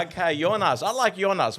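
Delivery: Jonas said yo-nas with a Y sound and open o; German Jonas. Shown as a demonstration. Host enjoying the German name, Jonas as yo-nas. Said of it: "We use the accent".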